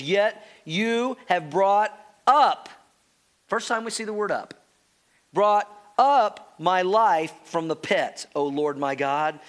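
slow, weighty reading of the verse; slow scripture reading. Acted. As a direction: savour each word of the promise. Reads scripture slowly.

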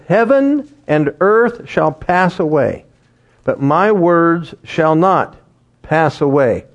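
slow, solemn reading of Jesus' words; scripture reading. Acted. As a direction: read the verse with weight. Reads scripture aloud.

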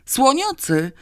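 high-pitched panicked yell; last scream. A narrator's reading. Terrified drunk falling into a policeman's arms, yelling. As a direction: yell it one last time. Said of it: "wrzasnął jeszcze ostatni raz".

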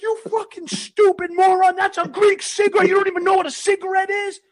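high-pitched outraged rant; indignant yelling. Retold or imitated. Yelling at bouncers who call it marijuana, high outraged rant. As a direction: berate them, totally convinced. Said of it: "I was like".

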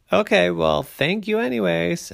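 high, excited little bear cub voice; a bright eager cub asking around. A narrator's reading.

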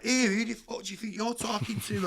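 high, sassy comeback with attitude; who does he think he is, said with full attitude; proper attitude. Retold or imitated. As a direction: bite back like an offended teenager. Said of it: "And all that proper attitude".

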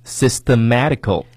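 slow, careful repeat; slow motion. Shown as a demonstration. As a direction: model it slowly again. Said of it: "我再给大家慢速地来读一下哈". (慢速示范)

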